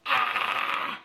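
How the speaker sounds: voiceless, breathy sigh; exasperated breath out. Real, not acted. Alone at the mirror after messing up, exasperated huff. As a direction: let out a long huff of air.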